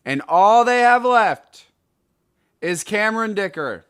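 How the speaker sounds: high, loud outraged disbelief; worked-up fantasy football rant; exasperated. Real, not acted. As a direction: push it up high in indignant frustration. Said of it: "I was so mad".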